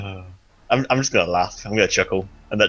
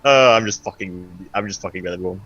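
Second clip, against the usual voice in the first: evil chuckle. Acted. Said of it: "chuckling, like, rather evilly".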